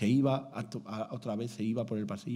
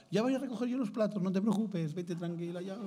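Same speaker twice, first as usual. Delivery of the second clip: lightly voiced helpful nun, higher and fast; a hint of an eager sister; 5 semitones higher than usual. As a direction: offer to clear the plates, eager and kind. Imagined sister offering help.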